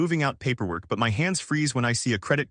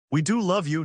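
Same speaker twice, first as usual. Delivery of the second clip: raised, higher mock shout; dad shouting; 6 semitones higher than usual. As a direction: lift it up like a half-hearted shout. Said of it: "Dad shouts".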